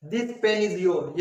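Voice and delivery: very slow, word-by-word English example; slow careful reading. Shown as a demonstration. Teacher reading an example to students, very slow and deliberate. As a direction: dictate each word slowly for learners. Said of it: "first example हमने देखा".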